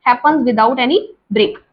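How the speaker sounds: slowly spelled out for notes; slow, careful dictation to students. Shown as a demonstration. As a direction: dictate each word deliberately. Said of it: "teacher dictating slowly".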